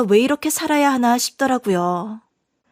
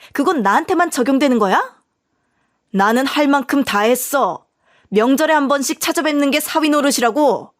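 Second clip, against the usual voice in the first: indignant wife. Acted. Wife arguing back at husband.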